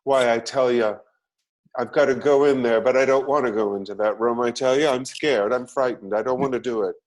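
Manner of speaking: theatrical mid-Atlantic film star voice; mid-Atlantic accent. Retold or imitated. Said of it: "trained to speak in this kind of odd mid-Atlantic accent".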